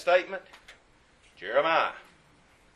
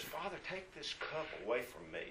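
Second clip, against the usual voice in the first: soft, hushed plea to the Father; hushed prayer; 17 dB quieter than usual. Acted. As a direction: pray it quietly, almost to yourself. Jesus prays in Gethsemane.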